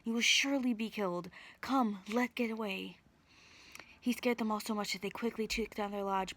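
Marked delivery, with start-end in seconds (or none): 0.0-3.0 urgent shouted warning; shouting. Acted. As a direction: call out in alarm. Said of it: "he shouted".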